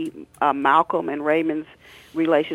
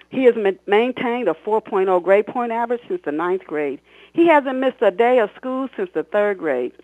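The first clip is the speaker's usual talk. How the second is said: principal's speech; 5 semitones higher, 5 dB louder than usual. Acted.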